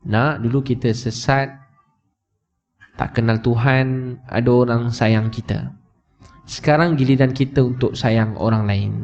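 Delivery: slow, measured retold mother's answer; patient motherly explanation. Mother telling her son to love others, slow and patient. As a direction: explain slowly to your child, leaving long pauses.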